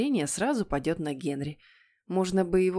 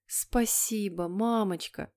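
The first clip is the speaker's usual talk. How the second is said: put-on sweet, slow good-boy thanks; beaming; 4 dB quieter, slower than usual. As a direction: thank mum sweetly, drawing it out. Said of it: "просиял послушный Питер". (просияв, сладко и медленно)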